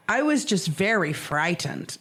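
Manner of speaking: slow retelling with deliberate weight on "frightened"; overemphasized FRIGHTENED. Retold or imitated. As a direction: lean on "frightened", drawing the phrase out. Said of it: "I swear that that's how she said it".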